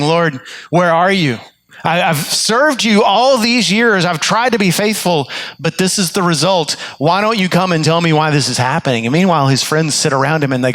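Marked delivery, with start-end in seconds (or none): 0.0-9.0 higher, pleading lament, lightly acted; crying out to God. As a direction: plead with God in mild anguish. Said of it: "he's crying out to God".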